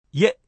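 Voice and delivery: イエ run together as a single syllable, "ye"; one-breath diphthong. Shown as a demonstration. Teacher shows the key sound, イエ as one glide. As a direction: say イエ in one go like one vowel. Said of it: "一つの母音のように一気に".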